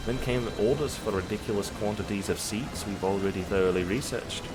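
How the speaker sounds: wobbly mix of Scottish and Irish; unsure Celtic lilt on game dialogue; amateur Scottish-Irish accent. Acted. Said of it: "like, a Scottish and Irish accent".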